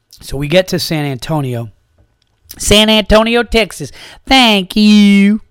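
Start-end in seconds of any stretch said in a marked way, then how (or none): 2.6-5.4 high, loud chirpy announcer lady; tour lady voice. Retold or imitated. Comic quoting the Alamo lady to the crowd, high chirpy greeter. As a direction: sing it out like a tourist guide. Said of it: "there's a scene where the lady says".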